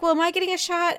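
put-on high worried girl voice; little girl voice. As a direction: ask like an anxious little girl. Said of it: "she's like".

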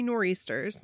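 nor'easters said the Boston way, r dropped; a quick Boston accent on nor'easters. Shown as a demonstration. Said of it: "my little Boston accent for you there".

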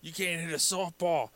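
mocking Dave. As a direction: sneer it like the teasing friend.

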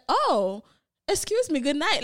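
prim English voice, high on excuse me; proper English voice. Retold or imitated. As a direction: switch into a polished proper English voice. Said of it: "Like, switch from patois".

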